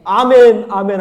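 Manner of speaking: loud, high call of affirmation; ringing preacher's amen; shouted amen. Real, not acted. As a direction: proclaim it at full voice. Calls out amen.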